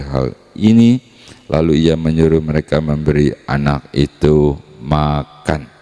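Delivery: measured Bible reading for the congregation; scripture reading. Acted. Preacher reading the Gospel aloud to the church, solemn and measured. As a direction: read the passage with solemn care.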